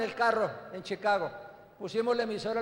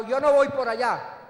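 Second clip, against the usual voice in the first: louder, irritated refusal, stress on no; annoyed husband turning his wife down; angry refusal; 2 semitones higher, 5 dB louder than usual. Retold or imitated. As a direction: push her request away crossly. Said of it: "Yo estaba bravo".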